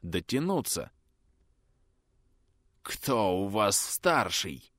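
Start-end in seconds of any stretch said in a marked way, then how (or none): 2.8-4.7 hoarse rasp. Acted. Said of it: "прохрипел бандит".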